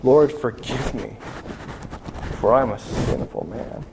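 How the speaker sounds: slow, understated broken prayer; a touch of a sobbing plea, slowed down; lightly voiced repentant man; mild retold sob. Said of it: "and he's sobbing".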